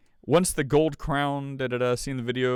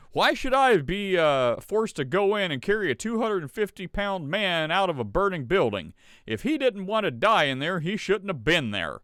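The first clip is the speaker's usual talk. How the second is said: lightly voiced complainer, pitched higher; a hint of mock indignation in a higher voice; mock fire chief; 5 semitones higher than usual. Host mocking a fire chief's excuse, light mock indignation.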